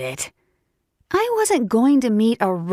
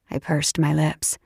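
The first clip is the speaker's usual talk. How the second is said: usual speaking voice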